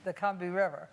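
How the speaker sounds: "Combahee" said CUM-bee, in two syllables; South Carolina pronunciation. Shown as a demonstration. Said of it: "As, as people in South Carolina say it".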